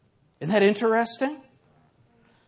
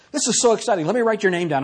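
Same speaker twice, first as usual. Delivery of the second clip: bright, eager mock praise, pitched up; mock excitement; 4 semitones higher, faster than usual. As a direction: gush over his name like a fan. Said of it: "I'm doing this just like this on the phone".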